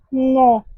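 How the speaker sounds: No à la française; no in French. Shown as a demonstration. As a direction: say No the French way, as "non". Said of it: "Let me say it in French".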